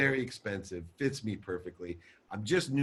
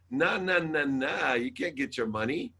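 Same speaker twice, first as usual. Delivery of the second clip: sing-song mock refusal, pitched up at the start; 4 semitones higher than usual. Bank telling him he can't get his money, mocking. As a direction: turn them away like a smug bank.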